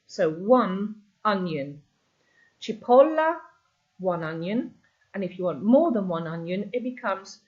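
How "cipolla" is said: "Cipolla" said high with the O stressed. Shown as a demonstration. Teacher modelling "Cipolla" again, higher, O stressed. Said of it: "That's where your stress is on the word".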